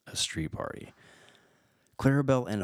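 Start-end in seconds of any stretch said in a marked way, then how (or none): 0.1-0.9 breathy whisper, dropping right down. Shown as a demonstration. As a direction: whisper it like a secret. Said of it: "exclamation point".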